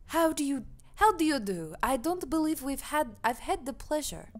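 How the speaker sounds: badly faked German accent; formal greeting in wobbly German accent; failing German accent. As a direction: try a slight German accent. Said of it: "German is not sticking".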